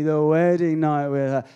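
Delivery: knowing, teasing the wedding night with her; suggestive repeat. Shown as a demonstration. Preacher teasing the crowd about the wedding night, knowing. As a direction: let the wedding night with her land with a wink. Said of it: "Uh-huh, honey".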